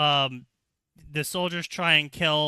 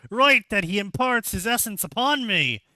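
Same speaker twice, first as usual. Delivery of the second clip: mock defiant outburst; 4 semitones higher than usual. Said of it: "he's like".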